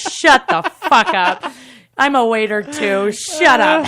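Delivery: high, loud comic retort; mock outrage. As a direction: yell back at teasing coworkers. Snaps back at teasing waiters.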